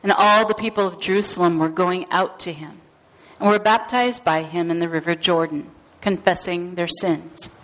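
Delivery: measured, formal gospel reading; a lector reading the Gospel of Mark; scripture reading. Acted. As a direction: read it to the congregation, steady and clear.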